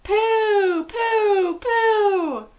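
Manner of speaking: high, loud squawking cries; crowd of witches crying out. Acted. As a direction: squawk each one in disgust. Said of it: "cried the audience".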